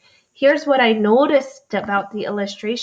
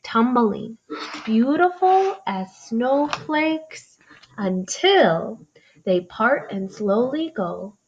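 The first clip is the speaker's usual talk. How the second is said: read-aloud voice. Shown as a demonstration. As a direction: read it gently like a story. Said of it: "reread to show you what it would sound like".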